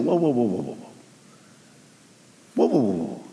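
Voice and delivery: gentle calming whoa, whoa; calm them down like frightened men; soothing whoa. Acted. Jesus calming his scared disciples, soft and gentle. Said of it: "he responds by saying".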